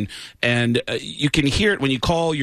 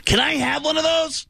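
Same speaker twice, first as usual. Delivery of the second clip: much higher squeaky begging rocker; impression of a rock singer. A rock singer asking another rocker for a free cover, high pleading impression. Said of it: "He goes".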